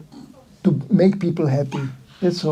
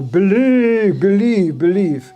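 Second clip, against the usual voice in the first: mock preacher; 3 semitones higher, slower than usual. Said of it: "they tell you".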